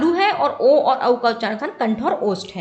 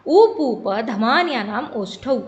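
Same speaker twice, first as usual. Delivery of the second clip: slow, measured Sanskrit recitation; reciting a sutra; 2 semitones lower, slower than usual. Shown as a demonstration. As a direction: intone the verse deliberately, word by word. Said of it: "तो इस सूत्र में क्या बताया गया है".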